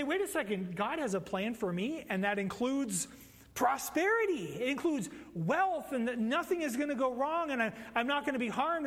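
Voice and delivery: lightly voiced eager churchgoer; mock naive believer. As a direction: play it as a naive, excited misreading. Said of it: "you look at this and you say".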